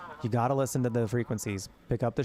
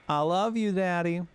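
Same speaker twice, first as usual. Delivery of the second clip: put-on higher, sweet little girl voice; sweet child's voice; 7 semitones higher than usual. Little daughter saying goodbye to Daddy, sweet higher child voice. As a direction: say it like a small daughter saying goodnight.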